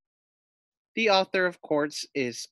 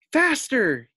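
high, loud command; urgent call; 8 semitones higher, 5 dB louder than usual. A narrator's reading. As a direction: spur it on. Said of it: "he called to his duck".

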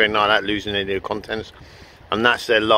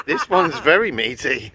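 laughing; 4 semitones higher, 4 dB louder than usual. Real, not acted. Giggling over innuendo.

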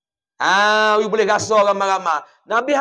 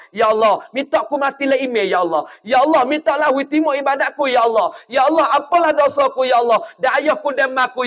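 a sermon-style model supplication; demonstrated prayer. Shown as a demonstration. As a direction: beg God fervently, line by line. Second sample prayer, fuller voice.

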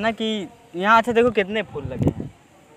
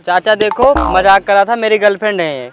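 louder, urgent explaining; loud pleading; 7 dB louder than usual. Real, not acted. Prankster to the angry uncle: loud pleading. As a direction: talk over him to calm him down.

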